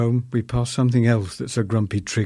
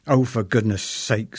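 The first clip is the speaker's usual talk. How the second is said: exasperated. Retold or imitated. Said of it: "said an exasperate Missus H".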